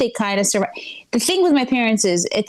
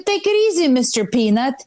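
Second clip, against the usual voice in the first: mocking retort; 4 semitones higher than usual.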